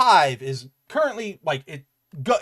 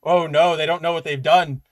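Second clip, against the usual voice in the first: mock dread. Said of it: "I just saw that and I went".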